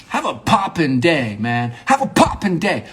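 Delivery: high, punchy playful farewell; upbeat send-off. Pretend. Monologist trying a goodbye on an imagined buddy, hyped. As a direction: toss it out with mock hype.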